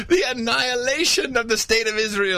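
high, laughing echo; laughing mockery. Real, not acted. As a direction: laugh it out in ridicule. Laughing mock repeat.

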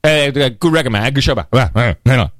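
lightly voiced laid-back radio guy; a hint of a chummy radio jock; radio guy imitation. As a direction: toss off short casual greetings like a DJ off air. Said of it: "they talk in this, like, short burst".

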